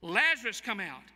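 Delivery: Jesus calling Lazarus out of the tomb; calling by name. Acted. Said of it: "it's just Lazarus".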